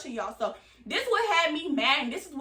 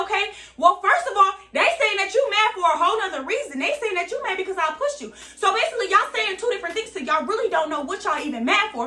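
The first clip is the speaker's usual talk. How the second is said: rising, pointed retort to the friend; confrontational callout; 5 semitones higher than usual. Retold or imitated. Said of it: "And I said it just like that".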